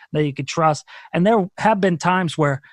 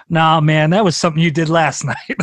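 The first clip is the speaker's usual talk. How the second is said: audience calling out; 4 dB louder than usual. Retold or imitated. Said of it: "And they go".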